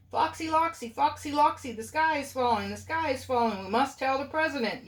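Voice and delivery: high, panicky bird voice; frantic yell. A narrator's reading. Birds yell the warning to Foxy Loxy. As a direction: cry out the alarm, high. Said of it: "yelled Chicken Licken".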